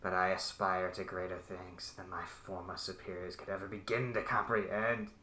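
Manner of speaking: distorted sinister voice over an intercom; menacing villain savouring his work. Acted. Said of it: "you hear a very distorted, uh, sinister voice".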